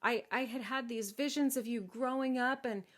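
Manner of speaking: hammed-up fatherly sorrow; lamenting king. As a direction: lament like a doting storybook father. King laments losing his daughter.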